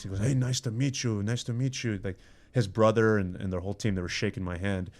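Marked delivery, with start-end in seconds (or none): 0.2-2.0 put-on Russian accent. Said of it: "butchering the Russian accent".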